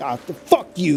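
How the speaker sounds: fuck you punched out hard, forceful stress. Contrasting ways of saying an insult, forceful emphasis on fuck you. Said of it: "putting emphasis on it and being like".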